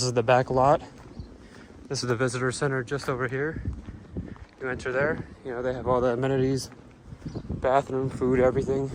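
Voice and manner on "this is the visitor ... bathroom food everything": out of breath. Real, not acted. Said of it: "Sorry, I'm out of breath right now".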